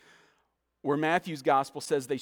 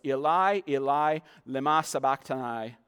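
crying out loud; 3 semitones lower than usual. Retold or imitated. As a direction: cry the words out louder. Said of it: "cried out with a loud voice".

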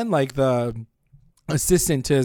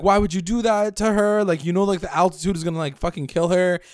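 mock alarmed protest; 5 semitones higher, faster than usual. Acting out Nick's protest to sisters.

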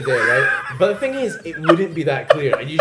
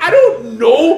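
much higher and louder, laughing through it; laughing helplessness; 13 semitones higher, 13 dB louder, much slower than usual. Retold or imitated. Student laughing, stuck in the exam. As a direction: laugh out the hopeless answer. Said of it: "And you're just like".

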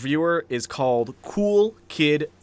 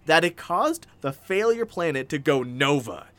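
slow, heavily punched declamation; dramatic review reading; 3 semitones higher, slower than usual. Acted. Host reading an over-the-top review aloud, grandly dramatic. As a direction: declaim it like an epic disaster tale.

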